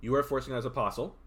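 hoarse voice. Real, not acted. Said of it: "I'm losing my, my voice".

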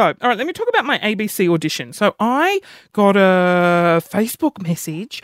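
normal talking voice

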